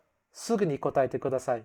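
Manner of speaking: "すぐに答えてください" said fast, curt and falling; bossy command. Shown as a demonstration. Teacher to class, the blunt rude version. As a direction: snap the request out like an order. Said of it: "So instead of".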